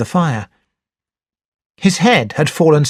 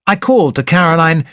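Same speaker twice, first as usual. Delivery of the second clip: ordinary delivery, nothing marked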